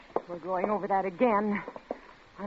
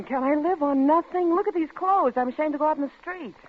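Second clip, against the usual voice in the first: angry; 7 semitones higher than usual. Acted. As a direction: rant at him, near tears of rage. Wife rants about poverty.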